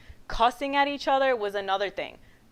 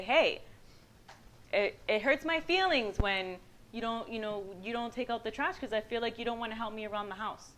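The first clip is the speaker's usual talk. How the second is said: softer, gently halting confession; honest hurt; 6 dB quieter than usual. Shown as a demonstration. Wife telling husband about trash, softly sincere. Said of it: "Not being able to say".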